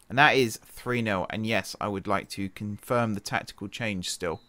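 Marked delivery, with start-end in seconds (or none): 1.3-4.4 yawning. Real, not acted. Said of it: "excuse me yawning".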